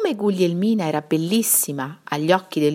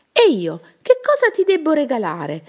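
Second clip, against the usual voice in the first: louder call, rising higher; shout; 8 semitones higher, 4 dB louder than usual. A narrator's reading. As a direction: call out eagerly after him. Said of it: "gridò la contessa brutta". (grido acuto e più forte)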